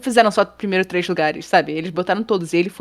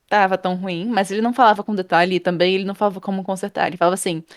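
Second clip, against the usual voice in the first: ordinary talk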